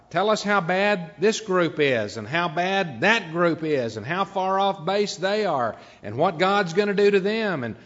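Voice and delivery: building in pitch and volume, hungry for condemnation; eager congregation. Acted. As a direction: play approving listeners urging the preacher on. Voices crowd egging on preacher.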